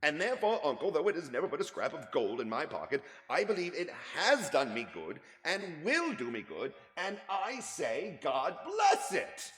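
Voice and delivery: high, loud earnest laughing plea; heartfelt speech. Acted. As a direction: praise Christmas with warm conviction. Nephew's warm Christmas speech.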